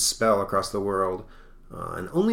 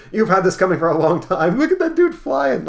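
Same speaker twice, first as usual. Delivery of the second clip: loud, high mock yell; hammed-up road-rage shout; berserk driver; 11 semitones higher, 10 dB louder than usual. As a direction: crow it in a raised, high voice. Berserk driver runs people down.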